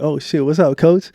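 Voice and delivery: retold happy greeting, lifted at the end; acting out a delighted phone pickup; super happy. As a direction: greet the coach with upbeat excitement. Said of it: "Yeah, super happy".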